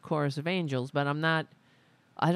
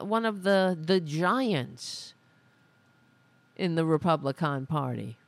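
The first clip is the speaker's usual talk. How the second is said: sarcastic. Real, not acted. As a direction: praise her with open sarcasm. Sarcastic mock praise of Greene.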